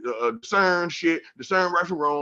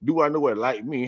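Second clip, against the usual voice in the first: incredulous; 3 semitones higher than usual. Retold or imitated. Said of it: "I said".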